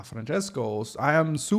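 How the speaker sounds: lightly attempted Italian accent, starting slow; hammy, half-remembered Italian accent; horrible Italian accent. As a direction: badly fake an Italian race car's accent. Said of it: "that was a horrible Italian accent too".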